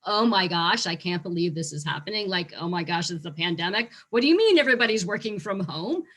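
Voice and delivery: imitating a shocked employee; shocked staff. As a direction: act out disbelief at the news. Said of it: "the initial shock, like the".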